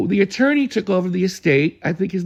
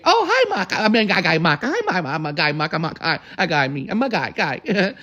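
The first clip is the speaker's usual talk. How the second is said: sprightly Harriet. Retold or imitated. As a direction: mimic an energetic old woman mixing up names. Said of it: "always so sprite and energetic".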